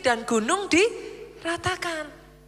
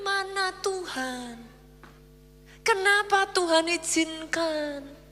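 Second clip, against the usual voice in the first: mock despairing plea; 4 dB quieter, slower than usual. Mimicking a doubting believer.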